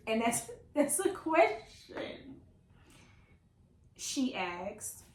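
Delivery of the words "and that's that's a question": higher pitch, breaking into a laugh; laughing disbelief. Real, not acted. Baffled reader tells viewers about the quote, laughing.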